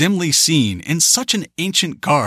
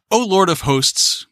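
crying out; 6 semitones higher, slower than usual. A narrator's reading. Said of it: "cried a voice among the crowd".

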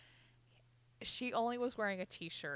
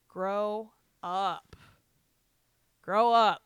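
exasperated scolding; 10 dB louder, much slower than usual. Retold or imitated. Retells scolding a forty-year-old.

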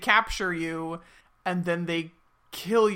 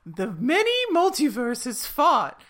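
slow, high Southern drawl; storytelling in a Southern accent; 7 semitones higher, 3 dB louder, slower than usual. Retold or imitated. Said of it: "I'm trying to do, like, a Southern accent".

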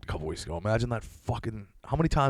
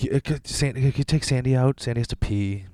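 lightly voiced girlfriend, a bit higher, sleepy ask; girlfriend's request; 3 semitones higher than usual. Girlfriend asks him to walk the dog, lightly voiced. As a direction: girlfriend nudging him awake to take Sandy out.

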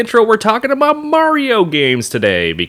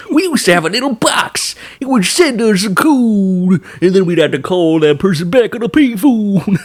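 lightly voiced old-timer, higher; rambling grandpa story; 5 semitones higher than usual. Mocking old-timer pager story.

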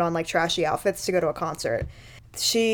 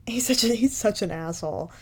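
hushed, breathy aside; whisper; 3 dB quieter than usual. Real, not acted. Friend whispers about the gross actor, quiet aside. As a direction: mutter it under your breath.

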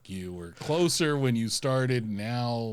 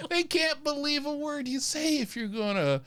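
mock scolding; 5 semitones higher, 3 dB louder than usual.

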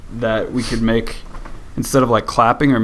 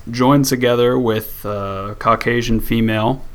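wordy cop talk; slower than usual. Pretend. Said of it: "talk like a cop where I add way too many words".

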